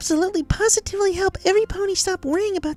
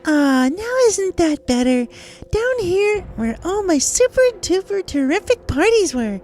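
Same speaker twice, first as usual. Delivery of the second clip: gloating villain. Acted. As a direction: savor her helplessness. Monster gloating in the cellar.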